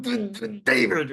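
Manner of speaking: high, bursting "Duh, duh, David"; a pushed stutter with high duh sounds; stronger stutter. Retold or imitated. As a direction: let the stutter break out. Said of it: "So now she's going".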